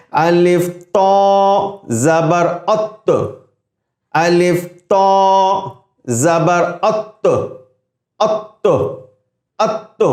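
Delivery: slow الف تو زبر ات, heavy ط with rounded lips; heavy ط with rounded mouth. Shown as a demonstration. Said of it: "منہ خود بخود گول ہونا چاہیے". (موٹا حرف، منہ گول کر کے)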